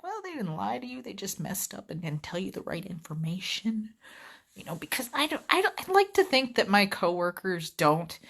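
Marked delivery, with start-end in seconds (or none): 0.0-3.9 placating. Retold or imitated. Rep placating upset caller, retold.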